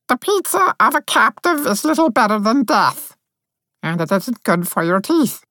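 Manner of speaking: high, level, unhurried; deadpan fairy intoning her own humiliation; sleepy high drone of a captive fairy; dreamy monotone. Acted. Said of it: "dreamy monotone".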